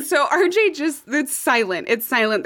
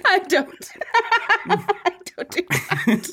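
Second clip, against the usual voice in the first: laughing denial; 6 semitones higher, slower than usual. Real, not acted. Denying amid laughter.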